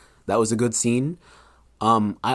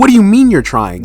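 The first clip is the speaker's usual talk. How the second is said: dad's voice; 10 semitones higher, 8 dB louder than usual. Retold or imitated. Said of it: "He's like".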